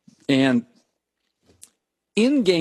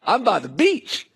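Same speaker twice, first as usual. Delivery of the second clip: mock bragging. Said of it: "he was just bragging like".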